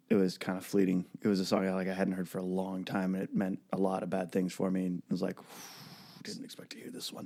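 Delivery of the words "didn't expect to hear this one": near-whisper, very soft; barely voiced, whispered aside; hushed retold reaction. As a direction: quote your stunned thought under your breath. Retold reaction to painful song.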